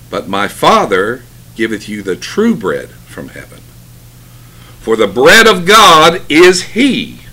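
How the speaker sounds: measured, emphatic pulpit reading with long pauses; scripture reading. Acted. Preacher reading John six aloud to the congregation, measured and emphatic. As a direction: proclaim each phrase, then pause.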